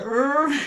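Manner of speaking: baffled groan. Acted. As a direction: act out a mock baffled groan. Acts out a baffled reaction.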